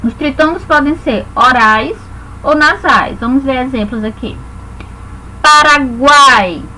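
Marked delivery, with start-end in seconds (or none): 5.4-6.6 slow demo word. Shown as a demonstration.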